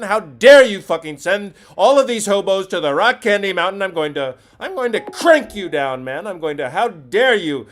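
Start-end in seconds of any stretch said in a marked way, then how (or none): 0.0-5.7 mock fury. Mock outrage at caller.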